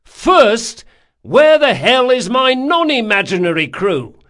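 high, loud, indignant threat; angry tirade. A narrator's reading. Captain with mimed blade threatening sailor, angry tirade. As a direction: rant theatrically with exasperated force.

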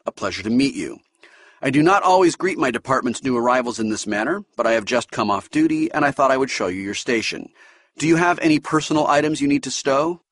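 polite, measured officer welcoming a new ensign; King's voice. Acted. Science officer greeting new ensign Dahl, lightly voiced and formal.

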